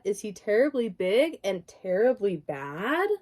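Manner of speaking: lively bedtime story voice, sing-song rhymes; reading to children. A narrator's reading. Parent reads picture book aloud.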